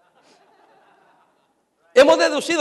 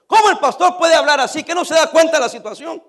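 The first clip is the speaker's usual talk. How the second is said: mocked church sister; 5 semitones higher, 5 dB louder than usual. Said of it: "una hermana dijo esto".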